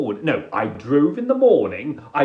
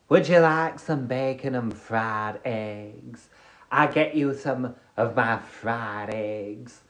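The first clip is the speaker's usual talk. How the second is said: American fast food worker; 6 semitones lower than usual. Acted. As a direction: take the order in an American accent, easing lower. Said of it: "do an American fast food worker here".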